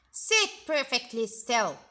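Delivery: loud stern command; strict teacher. Acted. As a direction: demand total stillness. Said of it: "said Miss Swamp".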